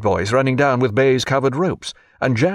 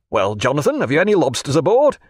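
milder tone. Acted. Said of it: "in a milder tone".

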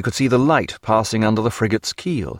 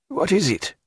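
mild snarl; 8 semitones higher, 3 dB quieter than usual. A narrator's reading. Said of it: "with a bestial snarl".

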